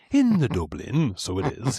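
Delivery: light mock Dublin accent. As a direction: put on a playful Dublin lilt. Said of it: "that Dublin accent".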